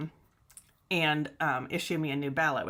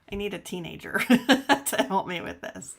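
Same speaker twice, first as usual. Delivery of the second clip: laughing through the words, a bit louder; laughing at herself; 2 semitones higher, 6 dB louder than usual. Real, not acted. Vlogger laughing at her mirrored camera, giggling. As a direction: chuckle helplessly while asking for help.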